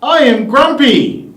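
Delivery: high pitch. Shown as a demonstration. The speaker trying grumpy in a high pitch. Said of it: "in a really high pitch".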